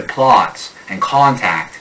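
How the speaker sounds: "plots and contact" with a rounded Boston aw; Boston "plots", O pulled back toward aw. Shown as a demonstration. Coach showing the Boston mutation, "plots and contact" in Boston vowels. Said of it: "a guy from Boston mutates it to".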